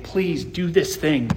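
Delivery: slow, mildly pleading appeal; earnest plea. Acted. Peter calling believers to his side, earnest plea. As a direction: gently urge them, drawing out the words. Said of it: "He's calling to his side and saying".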